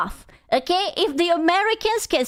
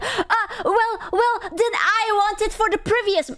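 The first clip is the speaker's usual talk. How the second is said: mock sheepish viewer; 8 semitones higher than usual. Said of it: "And I was like".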